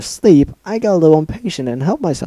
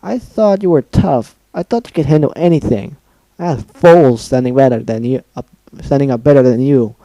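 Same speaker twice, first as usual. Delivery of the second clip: loud, rising furious rant; angry rant; 4 semitones higher, 6 dB louder than usual. Acted. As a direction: tear into her, louder and louder. Pinkie ranting at Dash.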